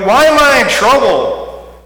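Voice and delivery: put-on high, slow childish whine; a kid pleading innocence; whiny child. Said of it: "You know".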